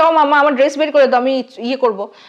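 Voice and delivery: ordinary talk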